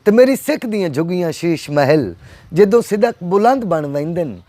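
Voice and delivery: measured verse, each line falling at its close; poetry recital. Acted. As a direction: recite the couplets to an appreciative listener. Recites his stanza to host.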